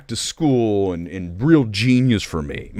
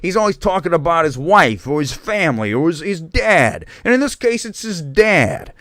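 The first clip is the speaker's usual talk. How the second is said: high-pitched, hammed-up Italian-American accent; 7 semitones higher than usual. Host imitating an Italian stand-up comedian, bad Italian accent. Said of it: "I do the whole thing like this".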